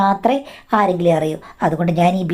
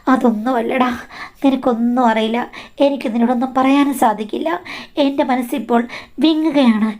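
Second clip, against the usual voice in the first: pitched higher, choked-up pleading; a mother's heavy heart breaking through; lightly voiced weeping mother-in-law; tearful mother-in-law; 4 semitones higher than usual. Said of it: "എന്നിട്ട് കരയുകയാണ്".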